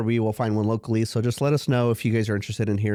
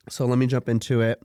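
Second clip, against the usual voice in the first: stuffy nasal voice from a cold. Real, not acted. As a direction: sound congested, nose blocked. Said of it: "excuse my nasally sounding".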